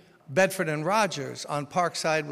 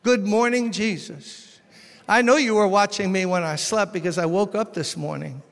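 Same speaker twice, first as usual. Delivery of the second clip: morning prayer; 3 semitones higher, 4 dB louder than usual. Shown as a demonstration. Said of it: "every morning wake up".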